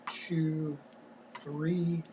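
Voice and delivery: whispered. Real, not acted. Counting pieces under breath.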